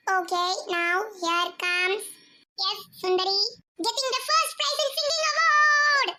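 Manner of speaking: very slow drawn-out announcer. Acted. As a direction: announce the winner grandly. Announcer calls the prize. (அறிவிப்பாளர் குரல்)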